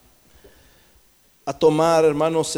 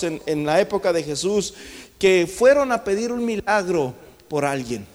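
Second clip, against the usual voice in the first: ordinary talk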